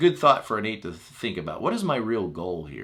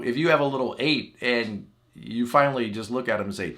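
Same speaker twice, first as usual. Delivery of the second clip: ordinary delivery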